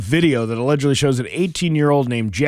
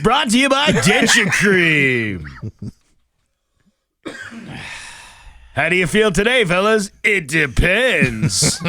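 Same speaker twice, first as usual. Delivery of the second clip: announcer voice; 5 semitones higher, 3 dB louder than usual. Acted. Mock ad announcer voice.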